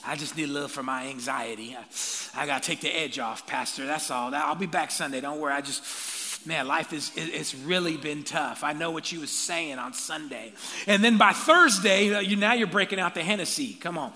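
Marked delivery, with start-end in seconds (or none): 0.1-10.5 lightly voiced low, worn-down excuse; a hint of a sheepish member excusing himself; weary churchgoer excuse.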